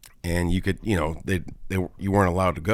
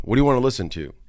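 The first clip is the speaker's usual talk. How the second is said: higher-pitched, mock-polite question; imitated polite asking; 5 semitones higher, faster than usual. Polite small talk with a stranger in the car, imitated higher. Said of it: "you're just trying to be nice".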